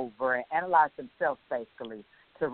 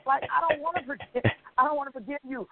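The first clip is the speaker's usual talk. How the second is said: high, pouting refusal to forgive; stubborn refusal; 9 semitones higher than usual. Retold or imitated. Host mimicking her own refusal to forgive, high and pouty. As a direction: dig your heels in, childishly.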